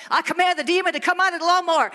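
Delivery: playful mock exorcism; mock deliverance. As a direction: rebuke the mower like a demon. Mock rebuking lawnmower demon.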